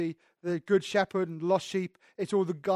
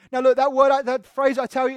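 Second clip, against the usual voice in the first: higher and louder, stressing "I tell you"; emphatic; 4 semitones higher, 7 dB louder than usual. Shown as a demonstration. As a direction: lean hard on "I tell you". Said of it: "it's an emphatic statement".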